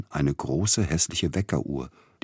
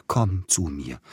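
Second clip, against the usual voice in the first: Komm zu mir called out gently, only a little raised; mild call. Acted. Dying man calling the youth to his bed, mildly. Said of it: "rief der leidende Verzückte".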